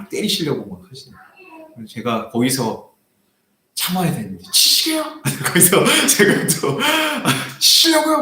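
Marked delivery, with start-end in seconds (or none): 4.5-8.2 much higher, louder, taunting; provoking challenge. Retold or imitated. Pastor taunting the old man raising his cane. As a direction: dare him to swing the cane. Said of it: "싸움을".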